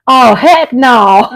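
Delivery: lightly voiced slow daughter's groan; a hint of a horrified daughter; daughter's mock dismay. Mother imitates her daughter's slow mild disgust. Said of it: "my daughter goes".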